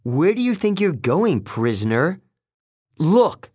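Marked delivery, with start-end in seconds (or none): 3.0-3.5 louder, high-pitched exclamation; urgent alert. A narrator's reading. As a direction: make her see the danger at once.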